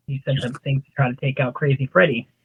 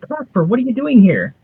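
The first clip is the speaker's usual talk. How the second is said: surprised; 6 semitones higher than usual. Acted. Character surprised by visitor.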